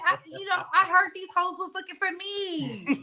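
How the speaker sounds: talking through laughter, pitch up; laughing. Real, not acted. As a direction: giggle while bragging. Joking brag, laughing.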